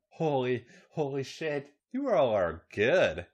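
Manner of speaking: halting, slowing gasped words; acted breath-catching praise. A narrator's reading. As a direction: gasp it out in pieces, spent. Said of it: "she gasped".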